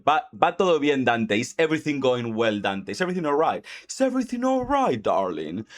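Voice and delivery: anxious, rising questions to Dante; a fretting companion checking on him; worried voice. Retold or imitated. Companion fretting over Dante, mildly worried.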